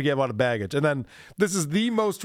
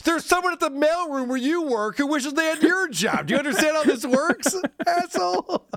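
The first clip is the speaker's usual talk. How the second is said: indignant rant; 9 semitones higher, 3 dB louder than usual. Acted. Hosts ranting at the influencer.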